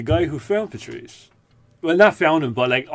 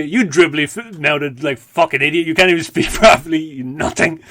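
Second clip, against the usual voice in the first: mildly louder mock scorn; lightly voiced Patrice insult; 3 semitones higher, 5 dB louder than usual. Patrice insults Colin Quinn, mild mock scorn. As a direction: belittle the mentor with a sneer. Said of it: "would still say".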